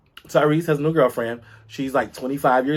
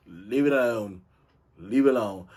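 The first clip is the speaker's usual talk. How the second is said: softer; 5 semitones lower, 6 dB quieter than usual. Real, not acted.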